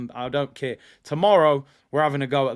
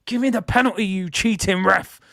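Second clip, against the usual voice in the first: fuming outburst; 3 semitones higher than usual. Real, not acted. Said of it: "I'm fuming".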